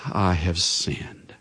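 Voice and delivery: low, slow, sighing confession. Retold or imitated. Preacher voicing King Saul's sighing confession, low and slow. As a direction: let it out like a heavy admission. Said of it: "says with a sigh".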